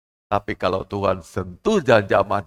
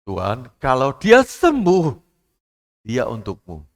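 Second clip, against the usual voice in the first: parents' vow; 5 dB louder, slower than usual. Retold or imitated. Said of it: "orang tuanya persembahkan dia".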